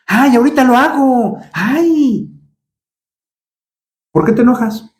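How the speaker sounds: a hint of a sulky teenager; whiny lazy teen. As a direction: play the kid who can't be bothered. Lazy reply about the dishes.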